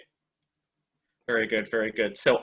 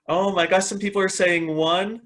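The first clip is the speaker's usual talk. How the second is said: bright, higher delighted reaction; oh my gosh, real delight; excited surprise; 6 semitones higher than usual. Real, not acted. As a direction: react with amused surprise to the answers. Reading surprising chat answers.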